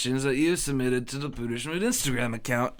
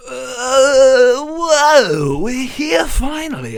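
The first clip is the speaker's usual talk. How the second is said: excited shout; 8 semitones higher, 8 dB louder, much slower than usual. Acted. Arrival exclamation.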